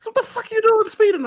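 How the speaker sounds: high, playful scolding cop; mock-stern cop; cop's voice. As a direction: tease him like a fan cop.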